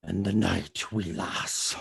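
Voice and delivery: low, quiet Scottish Batman; Sean Connery as Batman. Acted. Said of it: "Sean Connery as Batman".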